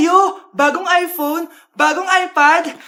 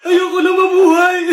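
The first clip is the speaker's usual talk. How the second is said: shouting; 5 dB louder than usual. Acted. Girlfriend shouting at zombie boyfriend.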